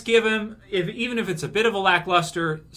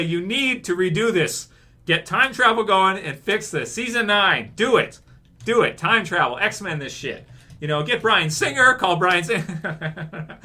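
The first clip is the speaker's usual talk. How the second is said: mock demand letter. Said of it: "I'm gonna say".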